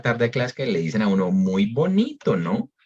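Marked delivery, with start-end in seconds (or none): 1.3-2.4 dry sarcastic "Muy bonito", stretched and falling; mock praise, really a reproach. Shown as a demonstration. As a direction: say "Muy bonito" like a scolding to a late student. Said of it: "No es que le estén diciendo que uno está muy bonito".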